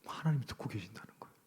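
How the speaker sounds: hushed, unvoiced reminder; whispered refrain. Real, not acted. Preacher whispers to the congregation that God hears. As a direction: breathe it out as a warning.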